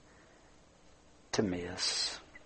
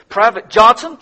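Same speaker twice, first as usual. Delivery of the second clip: captain barking orders, higher and louder; captain on the radio growling orders, higher and louder; growled orders; 9 semitones higher, 5 dB louder than usual. Acted. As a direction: threaten the private with rank. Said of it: "the captain growled back over the radio".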